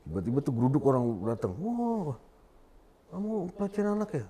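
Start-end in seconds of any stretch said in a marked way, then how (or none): 1.6-4.2 high, fast retold accusation; mock a mob accusing him; accusing crowd voice. Crowd accusing him of child abuse, high and quick.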